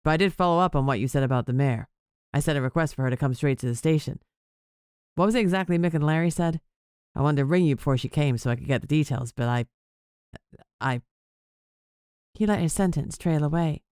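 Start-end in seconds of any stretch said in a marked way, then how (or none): 0.0-11.0 hesitant boss voice, pitched lower; a deeper man trailing off; lower male voice. Acted. Whip, hesitant at the end.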